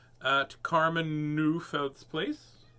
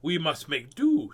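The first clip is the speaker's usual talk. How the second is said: sharp; 4 dB louder, slower than usual. Acted. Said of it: "answering sharply".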